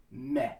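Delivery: "meh" with a pure open vowel; flat eh. Shown as a demonstration. Coach repeating the example word, flat "meh". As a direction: set "meh" apart, no glide on the end. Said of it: "has the correct sound".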